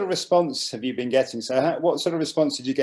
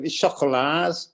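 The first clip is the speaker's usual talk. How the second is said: Scouse accent; 3 semitones higher, slower than usual. Shown as a demonstration. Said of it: "say it in a Scouse accent".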